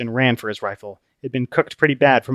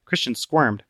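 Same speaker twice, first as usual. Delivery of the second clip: ordinary delivery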